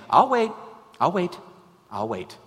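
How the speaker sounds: first loud and high, then fading down; patient God, repeating and fading; patient repetition. Retold or imitated. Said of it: "he's saying".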